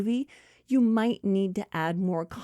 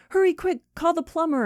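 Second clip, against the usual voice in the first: high, louder urgent order; urgent friend; 9 semitones higher, 4 dB louder than usual. Acted. Friend orders the other to call a plumber, urgent. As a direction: hurry her up in a mock panic. Acting out toilet emergency between friends.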